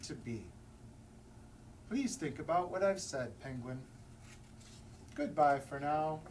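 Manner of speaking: a lightly voiced wise, soothing elder; wise walrus. Wise walrus consoling the penguin, lofty and gentle. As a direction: speak like a grand, kindly sage.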